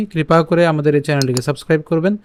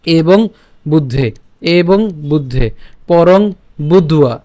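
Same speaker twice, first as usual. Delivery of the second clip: slow word-by-word Sanskrit demonstration; teaching recitation; slower than usual. Shown as a demonstration. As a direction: separate each word clearly for learners. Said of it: "একটু খেয়াল করুন আবার প্রথম থেকে".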